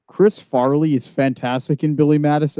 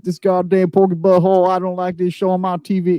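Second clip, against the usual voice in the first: angry viewer imitation; 5 semitones higher than usual. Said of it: "He was like".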